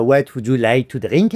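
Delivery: put-on careful schoolroom English in a French accent; very academic English with a French accent. French steward asks a Texan passenger, careful academic French-accented English. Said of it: "parler comme ça ... très académique".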